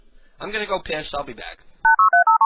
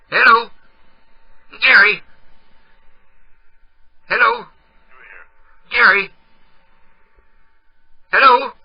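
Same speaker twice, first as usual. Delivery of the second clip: calling out; 3 semitones higher than usual. Real, not acted. Caller checks if Gary is still on the line, calling out. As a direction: call out to someone who may be gone.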